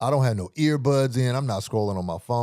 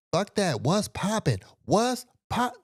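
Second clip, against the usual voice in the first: high, hammed-up yelled challenge, hardly louder; mock loud stranger; 10 semitones higher, slower than usual. Stranger hyping up a fight, high mock yell. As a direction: play the stranger getting loud and pumped. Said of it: "he getting hella loud".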